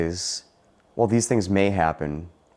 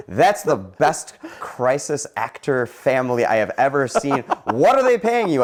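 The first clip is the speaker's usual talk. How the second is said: retold yell; 6 semitones higher, 3 dB louder than usual. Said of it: "I yelled at the family".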